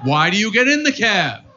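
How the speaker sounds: ordinary delivery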